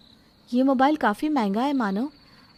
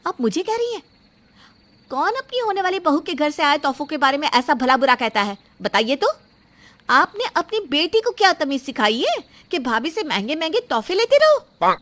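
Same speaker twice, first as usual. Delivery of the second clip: angry retort; 3 semitones higher than usual. Acted. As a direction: throw it back at the mother-in-law. Bride confronts mother-in-law. (सास से तीखा, गुस्से भरा सवाल)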